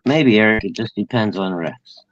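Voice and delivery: talking around a cigarette; words past a cigarette in the lips; cigarette in mouth. Real, not acted. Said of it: "I'm smoking a cigarette right now".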